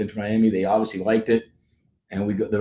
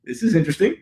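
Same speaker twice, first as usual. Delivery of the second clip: high-pitched retold amazement; astonished; 11 semitones higher than usual. Retelling his reaction to hearing Inter Miami, astonished.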